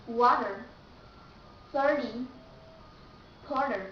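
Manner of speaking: water, thirty, porter with T changed to D; flat T. Shown as a demonstration. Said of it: "you have to change T into D".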